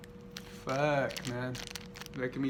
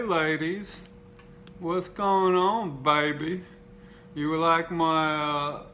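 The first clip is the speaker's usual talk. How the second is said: slow, higher sleazy pickup voice calling after women; higher, slow hammed-up lecherous zombie; creepy zombie flirt; 3 semitones higher, slower than usual. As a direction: leer at the ladies as the zombie on the pin. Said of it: "this one says".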